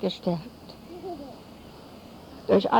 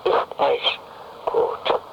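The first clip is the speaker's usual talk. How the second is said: louder closing proclamation; 3 semitones lower, 3 dB louder than usual. Acted. Closing line of the sermon.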